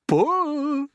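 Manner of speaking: high, loud shout. Acted. Grasshopper shouting to haul James up. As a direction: shout the order. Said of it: "shouted the old green grasshopper".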